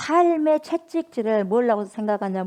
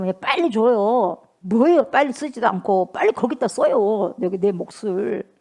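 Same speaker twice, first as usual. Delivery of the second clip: louder, hurried pushing; impatient urging; 4 dB louder than usual. Retold or imitated. Son rushing his father to write his share, loud and impatient. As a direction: hurry dad up impatiently. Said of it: "막 재촉하는 거야".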